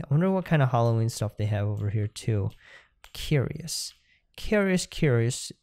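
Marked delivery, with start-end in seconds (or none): 3.1-5.5 hushed musing whisper; whispered wondering; whispered curious. Pretend. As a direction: breathe the word like a secret. Whispered then mock musing.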